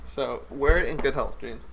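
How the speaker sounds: talking between bites of chips; with a mouthful of crunchy chips; crunching chips. Real, not acted. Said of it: "I'm sorry for all the crumbs".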